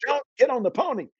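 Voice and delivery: put-on a voice cautioning the boy gravely; warning voice. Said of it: "all I could hear was".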